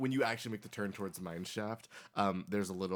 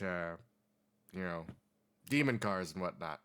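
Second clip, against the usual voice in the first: put-on very old man. Old man tells local legend.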